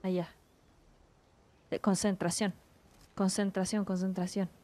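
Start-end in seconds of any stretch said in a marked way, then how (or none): 1.7-4.5 focused murmur. Real, not acted. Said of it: "modo concentrated".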